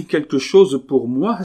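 high, loud, excited question; eager exclamation. A narrator's reading. Woman hearing he left her something, exclaiming. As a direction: cry out in eager surprise. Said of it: "s'écria Carmélite".

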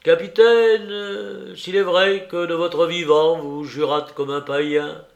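declaimed tribute to a departed uncle, opening on a long loud call; sustained, ceremonial apostrophe; solemn eulogy. A narrator's reading. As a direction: address the dead captain with oratorical grandeur.

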